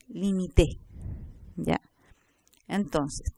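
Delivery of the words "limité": LIMITÉ said li-mi-TE, landing on the end; stress on last syllable. Shown as a demonstration. Teacher tells apart identical words, LIMITÉ stressed on TÉ. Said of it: "Nos permite diferenciar palabras fonológicamente idénticas".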